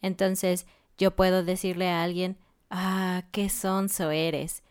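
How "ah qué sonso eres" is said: gentle teasing. Shown as a demonstration. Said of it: "es menos grosero".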